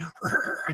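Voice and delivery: low-volume voiceless growl; imitated transformation growl. Fan shows co-host how Ghost Rider transforms, imitated growl. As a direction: imitate a monster's rasping snarl, softly. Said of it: "does that".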